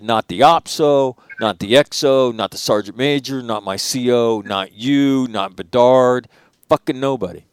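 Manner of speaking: telling the commander nobody came, loud and bitter; angry list. Retold or imitated. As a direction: pound each name like an accusation. Listing absent leaders angrily.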